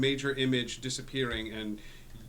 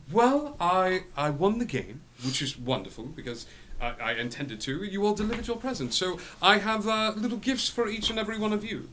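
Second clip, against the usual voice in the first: lightly voiced devil; 6 semitones higher than usual. Lucifer speaks to party.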